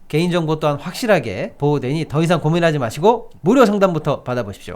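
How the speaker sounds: upbeat sales pitch read; hard sell ad. Acted. Reads a live ad.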